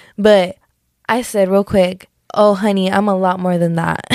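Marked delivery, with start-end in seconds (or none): none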